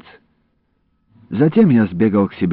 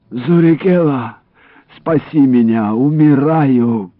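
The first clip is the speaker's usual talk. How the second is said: pained plea; 5 semitones higher, 4 dB louder, slower than usual. Acted. Wounded man begging for rescue.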